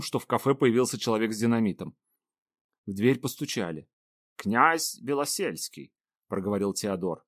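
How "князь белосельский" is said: slow formal announcement; announcing. Acted. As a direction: announce the guest slowly. Butler announcing a guest.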